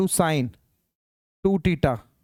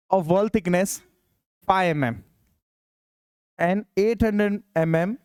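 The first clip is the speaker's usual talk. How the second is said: slow dictation; much slower than usual. Shown as a demonstration. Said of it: "teacher dictates question slowly".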